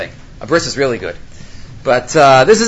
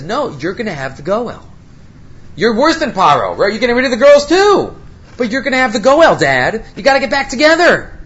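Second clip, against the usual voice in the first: higher, urgent pleading; pleading daughter; 5 semitones higher than usual. Retold or imitated. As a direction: beg your father to reconsider.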